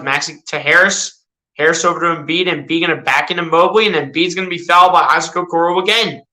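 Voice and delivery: mock sportscaster calling the action; casual play-by-play of a video game; live play-by-play. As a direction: call each move as it happens, like a TV announcer.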